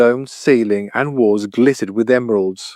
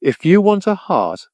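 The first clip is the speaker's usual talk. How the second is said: high, lightly growled beast line; a mild growl of a monster; 8 semitones higher than usual. A narrator's reading. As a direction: beast bargaining with the Tin Woodman, mild growl. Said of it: "the beast growled".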